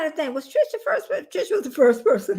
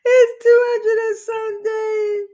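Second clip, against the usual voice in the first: excited; 10 semitones higher, 5 dB louder, slower than usual. Real, not acted. Laughs and exclaims again.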